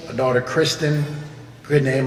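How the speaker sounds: usual speaking voice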